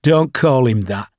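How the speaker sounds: irritable. Acted. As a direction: snap back, mildly annoyed. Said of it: "Sharp said irritably".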